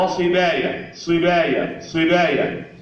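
صبايا with thin front "baya" after ص; light ب and ي. Shown as a demonstration. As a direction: keep "baya" light in صبايا each time. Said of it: "ما تفخمش الباء والياء". (صبايا بترقيق الباء والياء)

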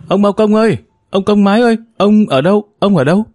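put-on high, ringing girl's call, carrying across the yard; girl shouting for the old man she can't find; a young girl's call, pitched high and carried far; calling out loudly. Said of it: "gọi toáng lên".

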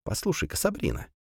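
soft whisper in her ear. A narrator's reading. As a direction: murmur it close, very softly. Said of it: "тихонько прошептал".

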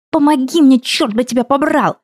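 high, furious yell for help; angry shout. A narrator's reading. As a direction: snap it with the last strength. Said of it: "разозлилась я".

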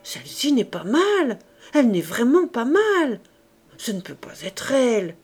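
loud, high, seething voice; a jealous mother raging at her husband, loud and high; furious rant. Acted. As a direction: spit out her jealous outrage. Enraged wife rants about rival.

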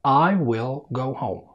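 "I will go home" slow, with a clear L in will; slow speed. Shown as a demonstration. Teacher shows learners the calm speaking speed, slow. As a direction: stretch out each word calmly. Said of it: "هنبدأ بالسرعة الهادية في الكلام".

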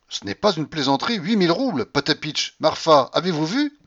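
high, loud, excited grandmother; exuberant old grandmother. Acted. Grandmother shows off her winnings to servants, exuberant. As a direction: call out in loud delight.

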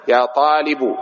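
"طالب" ending in a short u; definite vocative ending. Shown as a demonstration. Teacher addressing one particular student, "طالب" ending in -u. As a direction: say "طالب" as talibu, final damma. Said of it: "إذا كنت تتكلم مع طالب معين".

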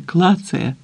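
ordinary delivery, nothing marked

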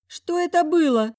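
high dazed moan; a lightly voiced groggy moan. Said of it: "простонала начавшая подавать признаки жизни Заюля".

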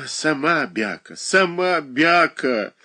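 put-on high, slow and childish retort; mock-childish tit for tat; childish heat. A narrator's reading. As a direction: snap back like a squabbling child. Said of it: "с детской горячностью ответила Шершнёва".

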